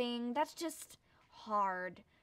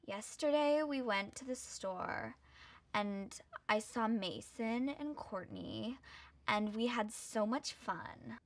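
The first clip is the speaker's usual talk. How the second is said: Kim impression; 6 dB quieter, slower than usual. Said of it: "that high voice that kinda sounds like".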